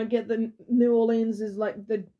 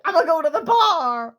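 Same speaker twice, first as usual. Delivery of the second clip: higher, laughing mock resolve; 8 semitones higher, 4 dB louder than usual. Imagining the citizen heading to the bar, laughing. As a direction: say it through leftover laughter.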